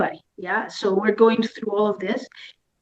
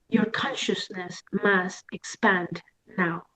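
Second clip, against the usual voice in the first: dramatic pronouncement; 5 dB quieter than usual. Retold or imitated. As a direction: imitate portentous messengers, softening as you go. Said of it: "You guys are so dramatic".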